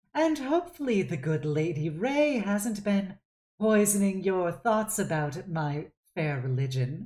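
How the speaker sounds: wry, smirking tone. She looks over at Sess with a wry smirk and speaks, wry and smirking. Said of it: "gives kind of a wry smirk and goes".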